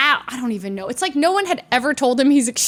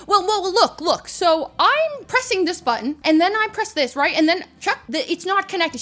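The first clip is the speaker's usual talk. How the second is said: mock complaining; 5 semitones higher than usual. Imitating man complaining to stewardess.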